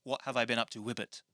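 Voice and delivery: "Wibbit" said as a quick whip-crack sound; "Wibbit" snapped out like a whip crack. Shown as a demonstration. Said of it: "That's why I'm saying it".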